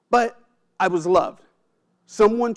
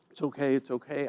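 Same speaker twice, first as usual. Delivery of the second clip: put-on much softer, calming a crying baby; soothing hush; 3 semitones lower, 9 dB quieter than usual. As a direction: hush a baby you don't know how to help. Boy soothing crying baby sister.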